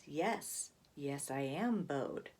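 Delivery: low, soft and slow, uncanny; creepy well voice. Acted. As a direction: speak like something hiding in the well. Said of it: "and then it says".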